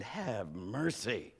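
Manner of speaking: low, soft and slow, lovestruck; slow hushed awe. Retold or imitated. Pastor recalling his wife, soft slow smitten have mercy. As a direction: let it out like a smitten sigh. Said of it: "I might as well have said".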